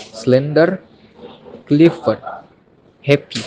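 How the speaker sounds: SLEN-der, CLIF-ford, HAP-py, first syllables stressed; "slender, Clifford, happy", each weighted on its first syllable. Shown as a demonstration. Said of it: "Stress on first syllable".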